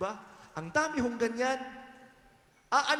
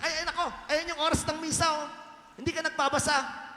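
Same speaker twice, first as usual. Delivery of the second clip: mock snappish nun, higher; imitating a cranky nun scolding; irritated nun; 5 semitones higher, faster than usual. Nun scolding a parishioner who asks the mass time, mock snappish.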